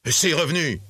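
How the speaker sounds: high, indignant outburst; indignant exclamation. A narrator's reading. Indignant nephew demands his accounts. (exclamation indignée, voix plus aiguë)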